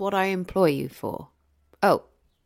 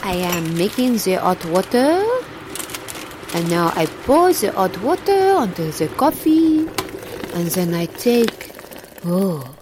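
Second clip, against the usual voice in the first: hushed narration. Acted. Narrating coffee making, hushed.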